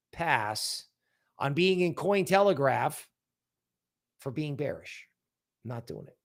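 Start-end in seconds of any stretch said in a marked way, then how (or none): 0.1-0.8 soft echo. Real, not acted. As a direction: pass dropped lower and softer. Echo of own refusal.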